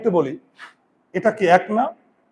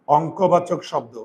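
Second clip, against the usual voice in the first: slow repeat; 3 semitones lower, slower than usual. Shown as a demonstration. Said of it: "সেটা হচ্ছে".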